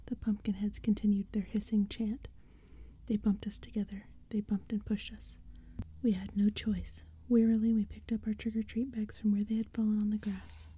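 hushed spooky whisper throughout; whispered storytelling. A narrator's reading. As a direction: breathe the story like a secret. Whispered narration.

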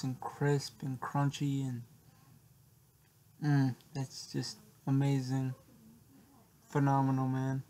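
talking between bites; chewing while talking. Real, not acted. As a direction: mouth partly full. Seen 1: Holds food bit near mouth; jaw and lips show chewing between words.

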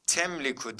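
"Temliku" starting with T instead of Y; wrong reading. Shown as a demonstration. Teacher rules out an option, showing the wrong reading. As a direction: swap the first sound to T in "Temliku". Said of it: "diye de okumadık".

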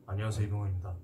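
very low, deep movie-star voice; deep Lee Byung-hun voice. Retold or imitated. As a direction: drop the voice deep and smooth. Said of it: "목소리가".

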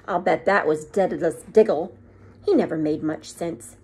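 a stern headmistress, put out; stern witch. Acted. McGonagall voice.

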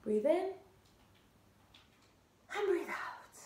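soft, calm breathing guide; calm breathing cue. Shown as a demonstration. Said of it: "take a breather".

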